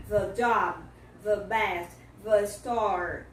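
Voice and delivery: 'The job, the best, the store' with 'the' as 'thuh'; 'the' said 'thuh' in 'The job, the best, the store', voiced th; closed 'the' before consonants. Shown as a demonstration. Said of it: "vai trazer o som do chihuahua".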